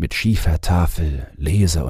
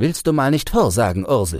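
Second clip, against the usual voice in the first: raised, impatient, pitched-up call; 7 semitones higher than usual. The teacher calls out to Ursel with an impatient call. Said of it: "Der Lehrer rief ungeduldig".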